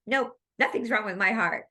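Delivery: firm, insistent mock denial; adamant denial. The lady in class insisting her heart is fine, adamant. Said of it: "she said it pretty adamantly".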